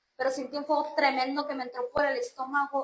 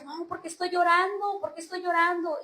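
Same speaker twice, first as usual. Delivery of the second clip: higher-pitched, bewildered self-questioning; desconcierto revivido; 4 semitones higher than usual. Retold or imitated. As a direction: retell asking yourself in disbelief. (desconcertada, reviviendo el llanto sin llorar)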